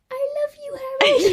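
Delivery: put-on high, tiny child's voice; little voice. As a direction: squeak it like a small child. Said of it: "you hear a little voice say".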